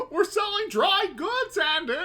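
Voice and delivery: loud, high panicky deputy squawk; Don Knotts impression. Viewer riffs on the shop as a flustered deputy: loud high squawk. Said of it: "a goddamn Don Knotts reference".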